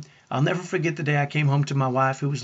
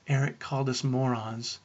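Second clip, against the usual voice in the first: put-on understated, subdued child's complaint; mildly tearful imitation; 4 dB quieter than usual. Seven-year-old twins tattling to mom, mildly tearful. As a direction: report it as if through tears, lightly. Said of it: "Their reply through tears".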